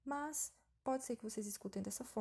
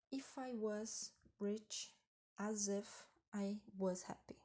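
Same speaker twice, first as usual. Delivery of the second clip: slow wrong example; much slower than usual. Shown as a demonstration. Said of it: "já tá contradizendo tudo".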